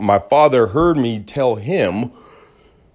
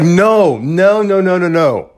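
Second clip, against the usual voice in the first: refusing no; 6 semitones higher, slower than usual. Retold or imitated. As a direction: shut the idea down fast. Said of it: "I'm gonna be like".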